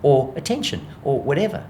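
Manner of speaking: the dog shrugging happily; contented dog voice. Retold or imitated. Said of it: "The dog goes".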